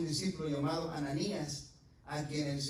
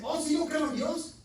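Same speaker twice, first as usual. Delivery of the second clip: imitating people; 13 semitones higher, 6 dB louder than usual. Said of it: "Usted ha escuchado hablar que dice gente".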